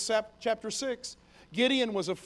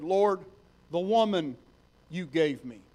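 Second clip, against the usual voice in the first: whiny excuse; 4 dB louder than usual. Acted. Adam blames Eve to God.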